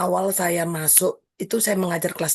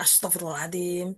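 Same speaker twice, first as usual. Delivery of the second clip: dismayed exclamation; 6 dB quieter than usual. Retold or imitated. Teacher recalling a student's insults, dismayed quiet exclamation. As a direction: breathe it out in quiet disbelief. Teacher's shocked reaction to vendor.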